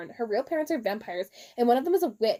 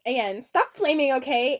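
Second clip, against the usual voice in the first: whiny author; 4 dB louder than usual. Acted. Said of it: "Chapter eight".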